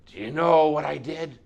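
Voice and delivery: insistent, forceful questioning; demanding. Acted. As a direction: challenge the whole room with the question. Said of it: "He demanded of the room".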